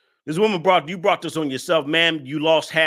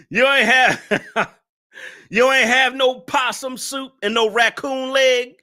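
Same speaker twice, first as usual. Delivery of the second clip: laughing mockery; 7 semitones higher than usual. Real, not acted. Mocking viewer while laughing.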